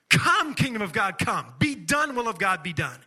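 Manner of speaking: slow, forceful proclamation; ringing command with punched openings; huge declaration. Shown as a demonstration. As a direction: declare it boldly, leaning on COME and DONE. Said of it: "is this huge declaration".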